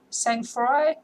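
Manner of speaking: "Sang-froid" tried as sang-frwah with a rising, doubtful end; unsure pronunciation. Real, not acted. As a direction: question the word "Sang-froid" as you say it. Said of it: "I don't know how you say that".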